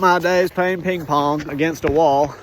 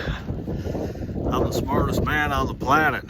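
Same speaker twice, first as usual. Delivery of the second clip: mock boast; 2 semitones lower, 4 dB quieter, slower than usual. Boastful joke.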